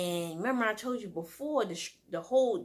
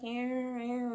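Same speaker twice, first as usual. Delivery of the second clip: cat imitation; 5 semitones higher than usual. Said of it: "She be like".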